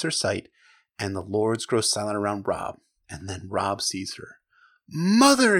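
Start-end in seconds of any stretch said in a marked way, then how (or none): 4.9-5.6 a son's cry, louder and higher, choked with feeling; emotional cry of Mother, high and loud; thick with emotion. Acted. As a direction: call out to his mother, overcome. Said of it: "his voice thick with emotion".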